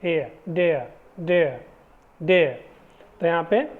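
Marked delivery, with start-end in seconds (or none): 0.5-2.6 देयर as day-uh with no r; air sound demo. Shown as a demonstration. Teacher models देयर for the class, no r. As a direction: say देयर gliding e to uh, r silent. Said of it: "ए, ए".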